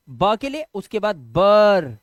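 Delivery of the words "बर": बर stretched loud as one closed syllable; drawn-out syllable. Shown as a demonstration. Teacher sounding out what to write, drawn-out syllable. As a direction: hold बर long and finish on r. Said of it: "अब लिख दो बर".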